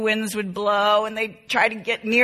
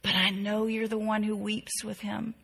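prayer. Shown as a demonstration. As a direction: pray it gently, voice dropping away. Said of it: "You can pray something like this".

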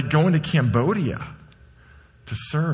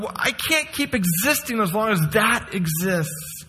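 anguished cry; 9 semitones higher than usual. Acted. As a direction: cry out as if the injustice keeps you awake. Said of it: "and you go".

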